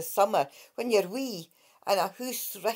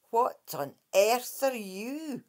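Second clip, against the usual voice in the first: gasped; 3 dB quieter, slower than usual. Acted. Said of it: "gasped Kate".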